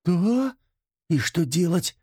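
high, teary question; a hint of tears as you ask; frightened Mila asks what to do, close to tears; tearful voice. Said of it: "со слезами в голосе спросила Мила".

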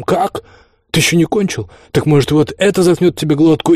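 high, heated outburst; exasperated threat. A narrator's reading. Enraged guest threatens the laughing host, high and heated. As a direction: burst out, pitch up, threatening.

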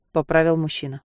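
ordinary delivery

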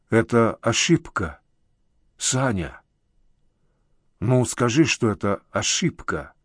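weakly pleading, understated; helpless babbling. A narrator's reading. Uncle begging his caller to call it a mistake, weakly babbling. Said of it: "лепетал".

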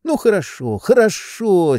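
high, brushing-off hurry; just get rid of him; impatient. A narrator's reading. Oblomov brushing off pushy Tarantyev, impatient and high. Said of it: "с нетерпением говорил Обломов".

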